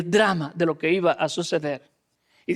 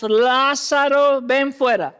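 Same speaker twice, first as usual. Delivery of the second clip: calling loudly; 4 semitones higher, 3 dB louder, slower than usual. Acted. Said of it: "clamó a gran voz".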